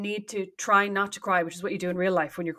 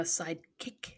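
softer, lower imitation of stagey diction; mock speech and drama; 4 semitones lower, 12 dB quieter, much slower than usual. Teasing her sister's weird catchphrase reading, mock speech and drama. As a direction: mimic a drama pupil's careful delivery. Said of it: "like you're doing speech and drama".

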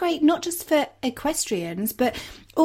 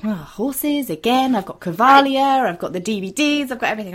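mock weary groan; 3 dB louder than usual. Partner groaning at another horse film.

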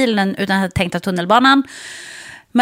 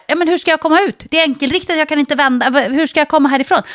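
higher, pressed and flustered; stressed pleading; 5 semitones higher than usual. Retold or imitated. To the garbage man blocking her car, flustered pleading. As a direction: plead in a rising panic. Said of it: "jag var så stressad".

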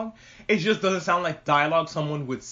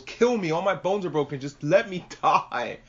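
mock dying plea. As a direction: beg melodramatically, stretching the end. Voicing an injured slayer begging.

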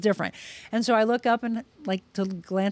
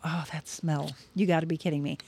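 hushed disbelief; 4 semitones lower, 7 dB quieter than usual. Retold or imitated. Overcome by a familiar scent.

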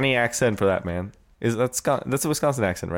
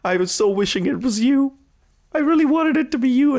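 mock romantic confession; 14 semitones higher than usual. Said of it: "Manny was like".

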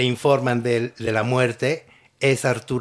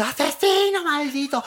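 much higher mock outraged cry; imitating Evangelina; 12 semitones higher than usual. Retelling Evangelina accusing the shooter, high mock outrage. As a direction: shriek the insult high. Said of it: "va Evangelina y dice".

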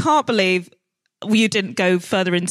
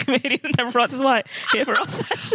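higher-pitched host introducing a guest; mock podcast introduction; 4 semitones higher, faster than usual. Therapist introducing client to listeners, mock announcer. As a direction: play the therapist as show host.

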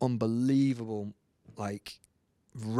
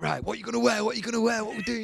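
mock panic; 10 semitones higher, faster than usual. Acts out band fretting before dinner.

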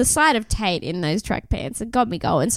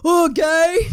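mocking bro; 7 semitones higher, 5 dB louder than usual. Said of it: "guys would be like".

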